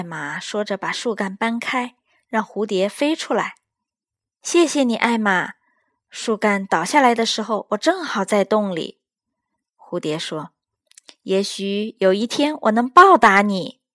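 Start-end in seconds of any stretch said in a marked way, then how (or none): 4.4-13.8 earnest butterfly promising to repay; tiny creature, thankful and sincere; grateful little butterfly. Acted.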